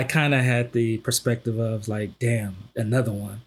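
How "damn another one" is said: understated resigned sigh of words, lower; mildly worn-down, low-pitched delivery. Retold or imitated. Host retelling his first reaction to the news, resigned. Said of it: "and kinda resigned myself".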